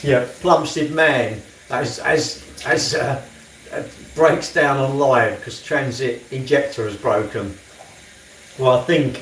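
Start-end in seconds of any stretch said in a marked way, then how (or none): 0.0-7.6 slow, loud headline read; slow announcement. Acted.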